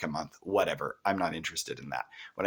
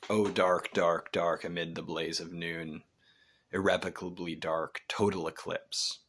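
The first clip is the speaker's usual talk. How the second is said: poetry reading. Acted. Teacher quotes Milton's lines on blindness, measured verse reading.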